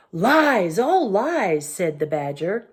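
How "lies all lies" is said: angry denial. A narrator's reading. Badger contradicts.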